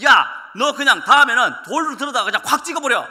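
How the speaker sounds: loud, laughing mock order; fired-up relative. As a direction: egg the kid on to hit back, half laughing. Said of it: "제 아는 친척 한 분은요". (웃으며 부추기는 친척의 큰 소리)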